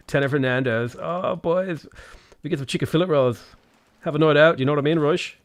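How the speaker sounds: a lightly posh south Dublin D4 voice; breezy south Dublin rich-kid talk; posh D4 Dublin accent. Acted. Doing the D4 accent for chat, a light posh Dublin lilt. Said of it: "my D four accent".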